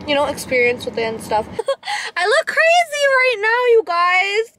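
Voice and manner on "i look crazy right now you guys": laughing. Real, not acted. Laughing at own swollen lips.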